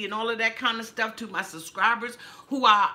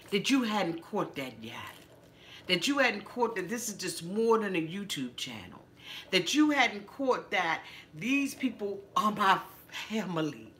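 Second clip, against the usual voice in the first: holding back tears. Real, not acted. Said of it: "And I'm trying not to get emotional".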